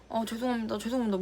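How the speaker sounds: soft, small repeated sorry; meek apology. Retold or imitated. Worker apologizing to the angry manager, softly and meekly. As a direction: shrink and just apologize. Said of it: "이러고 온 거야".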